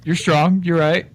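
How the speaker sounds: low, grudging Irish con man; Irish con man backing down before the big innkeeper; Irish accent. Acted. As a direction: concede it in an Irish brogue. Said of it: "You go right back to your Irish accent".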